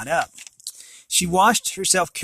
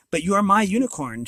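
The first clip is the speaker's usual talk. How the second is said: sobbing; 6 semitones higher, 4 dB louder than usual. Acted. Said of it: "she sobbed".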